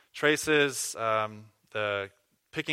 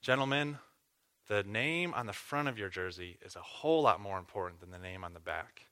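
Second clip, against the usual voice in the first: put-on Minnesota accent; 3 dB quieter than usual. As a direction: coach in a light Minnesota accent. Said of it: "in his wonderful Minnesota accent".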